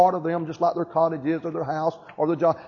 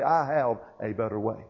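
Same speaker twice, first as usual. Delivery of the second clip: merciful, gracious; 7 semitones lower, 4 dB quieter than usual. Retold or imitated. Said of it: "in mercy and grace and loving kindness".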